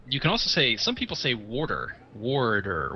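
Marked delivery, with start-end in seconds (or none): 1.3-2.0 "water" said as "warter"; R inside WATER. Shown as a demonstration. Explaining how some people say it, "water" with an R. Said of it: "with an R in there". 2.1-2.9 "warder" drawn out slowly with a clear R; R inside the word. Shown as a demonstration. Explaining how some people say it, "warder" with an R. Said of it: "with an R in there".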